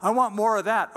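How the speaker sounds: a foodie blown away by one bite; amazed whoa. Retold or imitated. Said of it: "and go".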